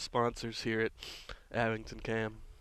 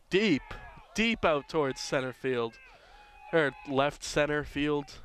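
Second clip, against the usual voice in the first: excited call; 3 semitones higher, 5 dB louder than usual. Acted. Live play-by-play call.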